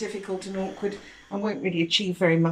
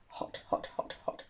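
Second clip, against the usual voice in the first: breathless hot-food gasps; 11 dB quieter than usual. Real, not acted. Tasting food too hot.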